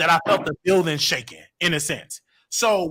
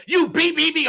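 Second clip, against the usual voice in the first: high-pitched bleeped swearing; retold cussing; 12 semitones higher, 4 dB louder than usual. Snapping at his uncle's question, high mock cussing. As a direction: imitate cursing with sharp high beeps. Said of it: "I'm just cussing".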